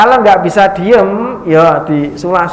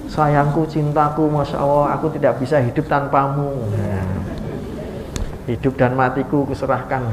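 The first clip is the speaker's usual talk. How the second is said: mock romantic; 2 semitones lower, 6 dB quieter than usual. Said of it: "ngomong sama garwane kok memuji".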